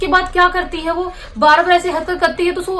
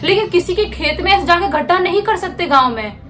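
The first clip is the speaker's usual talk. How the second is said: uncle scolding; 3 semitones higher than usual. Retold or imitated. Uncle scolding Kiran for digging holes, annoyed. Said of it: "बहुत गुस्सा करते".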